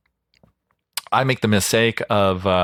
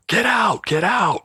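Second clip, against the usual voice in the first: angry get out; 12 semitones higher, slower than usual. Retold or imitated. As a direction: throw him out of the room. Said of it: "she's like".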